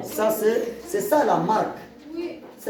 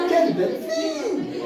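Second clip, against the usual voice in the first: much higher, delighted cry of Quelle belle fille; joyful exclamation. Shown as a demonstration. Teacher shows the class a joyful exclamation, much higher and delighted. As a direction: gush with joy over a pretty girl. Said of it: "je suis joyeux".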